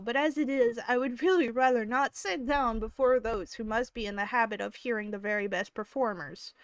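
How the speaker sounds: put-on southern accent. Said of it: "I'm gonna read this in a southern accent now".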